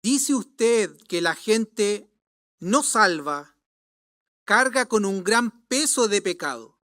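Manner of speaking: lightly mocking question. Scoffing young man questions a preacher, mocking tone. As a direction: tease the preacher with a sceptical question. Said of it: "en tono de burla".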